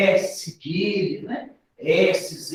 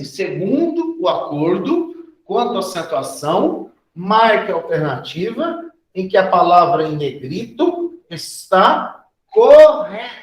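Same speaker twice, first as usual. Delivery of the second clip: reading a question aloud; 6 dB louder than usual. Real, not acted. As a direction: read out the exam question, punching the last words. Reads the exam question aloud.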